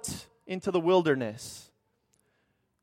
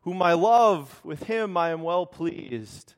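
booming voice; slower than usual. Acted. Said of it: "this booming voice comes from heaven and says".

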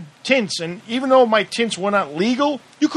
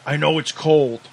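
lower, easygoing officer reassuring; calm cop voice; 6 semitones lower than usual. Retold or imitated. Cop telling the cuffed driver to wait, lower and calm. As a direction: talk him down gently, man to man. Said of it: "the guy's like".

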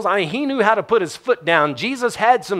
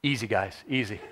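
soft, coaxing call, much quieter; gentle easy; 7 semitones lower, 11 dB quieter than usual. Shown as a demonstration. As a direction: hush them gently, like calming horses. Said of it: "This time it's".

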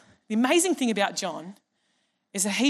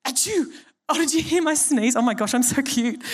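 mock self-absorbed friend; 3 semitones higher than usual. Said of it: "It's like".

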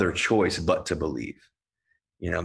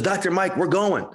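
excited patient; 11 semitones higher than usual. Retold or imitated. Patient announcing he's going.

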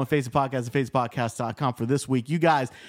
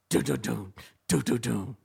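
drawn-out ring announcer call; fight announcer; 3 semitones higher than usual. Pretend. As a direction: hype the fighters like a boxing MC. Announcing a fight between corners.

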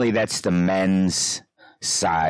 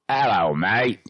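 joking, higher-pitched go at a Welsh accent; Welsh accent attempt; 5 semitones higher, 3 dB louder, slower than usual. Shown as a demonstration. Reading a text from a buddy from Wales, mock Welsh accent. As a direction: put on a playful Welsh accent. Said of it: "I might have to put the accent on it".

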